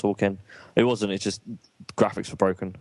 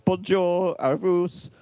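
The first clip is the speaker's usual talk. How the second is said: high, sing-out greeting in bad French; mocking imitation; 9 semitones higher, slower than usual. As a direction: chirp it proudly with the wrong pronunciation. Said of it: "All day she's walking around going".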